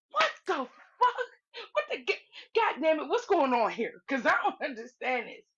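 high, wailing imitation of disbelief, laughing; baffled outburst. Slim reacting to the panel swooning, hammed-up bafflement. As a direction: squawk his confusion through laughter. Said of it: "Slim was, like, truly baffled".

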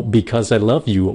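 slow "Because I love you" with a careful voiced z in "Because"; over-correct Z. Shown as a demonstration. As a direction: pronounce the Z of "Because" carefully and slowly. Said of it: "khi các bạn phát âm đúng".

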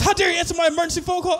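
fast, high, loud indignation; mock outrage. Caller berating whoever answered the emergency call, mock outraged. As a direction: fire it off as an affronted caller.

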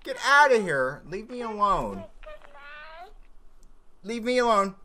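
high, loud shooing; protesting yell. Pretend. Player driving the bears away, loud high yelling. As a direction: yell at them to clear off.

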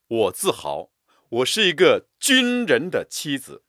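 军人 loud and proud; proud stress on 军人. Shown as a demonstration. Teacher reciting proudly, stress on 军人. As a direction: lift 军人 with pride. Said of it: "为了强调某个词".

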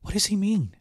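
high, scared question; frightened girl. A narrator's reading. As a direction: ask it in sudden panic. Girl in sudden fear.

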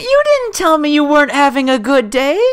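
high, insistent reassurance; concerned protest. Real, not acted. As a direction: object at a high pitch, upset for a friend. Protests friend hiding a bad day.

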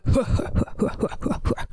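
breathy unvoiced demon cackle; a wicked little hiss of a laugh. Recapping a horror movie, the demon's little laugh. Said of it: "we hear Amanda laughing like".

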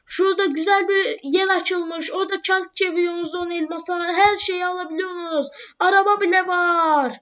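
half-hearted public announcement call; calling out to villagers. Acted. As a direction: hail the villagers across the square, lightly. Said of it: "E, bağırıyorum arkadaşlar".

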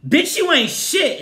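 high, loud and slow contempt; loud put-down. Real, not acted. Yelling at Todd over the money, scornful. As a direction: spit it at him slowly.

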